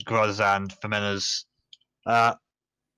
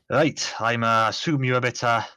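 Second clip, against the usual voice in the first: lightly attempted Scottish dwarf; amateur Scottish accent. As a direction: address the party in a shaky attempt at Scottish. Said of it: "do a good Scottish accent".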